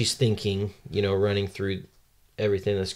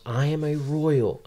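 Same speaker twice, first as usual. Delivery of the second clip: higher-pitched proclamation without much volume; mild mock yell; 6 semitones higher than usual. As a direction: declare it high, a restrained yell. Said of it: "and she yells".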